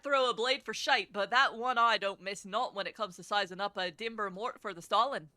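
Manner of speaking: lightly put-on Scottish brogue; a hint of a gruff Scottish rogue; terrible Scottish accent. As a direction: read it in a rough, amateur Scottish accent. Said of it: "my really terrible Scottish accents".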